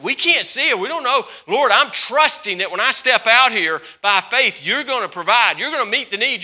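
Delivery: loud, high preaching climax; full-force preaching. Acted. Preacher rousing the congregation, loud and high. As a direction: preach it out, rising to a shout.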